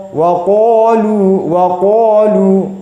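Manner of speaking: qalu said with a rounded, heavy qo; wrong qalu. Shown as a demonstration. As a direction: read qalu as a mistaken qo.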